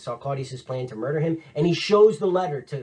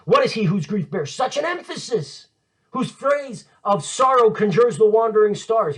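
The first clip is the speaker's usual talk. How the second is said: dramatic declamation; 6 semitones higher, 4 dB louder than usual. Acted. Declaims Hamlet's challenge at the grave.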